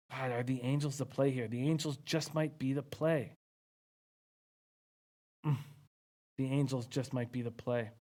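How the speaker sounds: hushed, low murmur; low-energy hush; ghost whisper voice. Real, not acted. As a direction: think aloud softly, nearly whispering. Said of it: "doing this Ghost Whisper voice".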